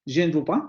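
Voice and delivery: "je ne veux pas" keeping the e of "je"; French demo, sounding the schwa in "je"; vowel pronounced. Shown as a demonstration. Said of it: "vamos a pronunciar esa vocal".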